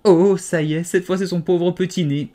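high, loud burst of dismay; terrified cry. A narrator's reading. Alice watching a saucepan skim the baby's nose, terrified. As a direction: cry out in horror. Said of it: "d'inquiétude et de terreur".

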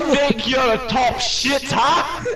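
British mock-tough taunt; put-on British accent. Staff member taunting a top shit, British accent. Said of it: "You do that accent so well".

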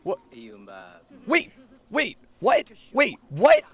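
startled protesting no. Real, not acted. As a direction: stop it in alarm. Dating interruption.

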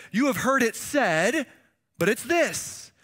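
slow, firm voice of a rabbi teaching with authority; a lightly voiced Jesus laying down the law; authoritative Jesus. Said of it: "gets up and teaches and says".

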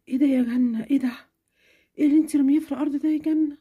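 mother scolding daughter over tissues, stern. Acted. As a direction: scold her for the mess.

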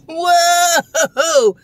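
sudden laughing shout of surprise; startled whoa. Real, not acted. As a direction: yelp as the spicy soda hits. First sip hits hard.

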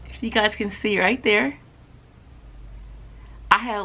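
speaking around a pen tip; pointing pen inside mouth; pen held at teeth. Real, not acted. Seen 3: Pen tip held against front teeth while speaking, removed by 4.0.

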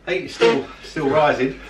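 breathy hurting whew from chili; mouth burning from spicy food. Real, not acted. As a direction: puff out the burning heat. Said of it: "my lips and tongue are burning".

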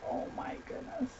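breathless whispered gasp of delight; hushed real awe; awed whisper. Real, not acted. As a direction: whisper it, stunned by how pretty it is. Awed over craft supplies unboxing.

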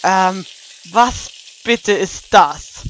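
cautious. Acted. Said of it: "fragt Luna vorsichtig".

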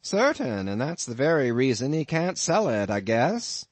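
amused landlord. Acted. Innkeeper teasing his lodger about the harpooneer, lightly voiced. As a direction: spin the tale with a sly chuckle underneath.

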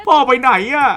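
put-on dub the child's line high again. Shown as a demonstration. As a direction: mimic the game kid, high pitched. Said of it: "Where's Dad?". (เสียงเด็กแหลมสูง)

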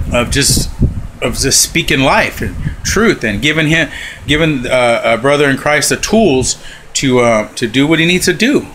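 eating while talking; mouth full. Real, not acted. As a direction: talk through a mouthful. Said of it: "excuse me, I'm sorry for eating".

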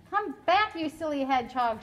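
put-on girl calling after a hedgehog. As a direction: call him back across the yard. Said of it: "she called".

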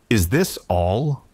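slow, offended echo of the question; angry repeat. Acted. Iron Arms echoing the alien's insult, slow and angry. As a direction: drag it out, insulted. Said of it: "Iron Arms repeated angrily".

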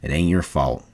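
low, soft voice; calm him down gently; quiet, low comfort; reassuring. A narrator's reading. Slim reassures whimpering Lenny.

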